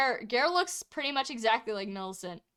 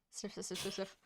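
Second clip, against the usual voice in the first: sniffing the air; 3 semitones lower, 15 dB quieter, faster than usual. Acted. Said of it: "Jupiter sniffs".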